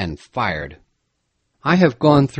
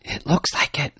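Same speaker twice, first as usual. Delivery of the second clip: eager reply; 3 semitones higher, 4 dB quieter than usual. A narrator's reading. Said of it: "replied Jack eagerly".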